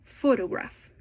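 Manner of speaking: PHOtograph, weight on the opening syllable; "Photograph" with a strong PHO, lighter ending; first-syllable stress. Shown as a demonstration. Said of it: "the first syllable is stressed".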